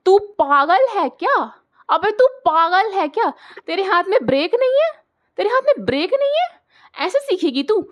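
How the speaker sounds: high, loud furious yelling at little sister; brother's outburst. Retold or imitated. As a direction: scold her like an enraged big brother. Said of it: "मेरे भाई का जो ज्वालामुखी फूटा है". (गुस्से में चिल्लाता बड़ा भाई)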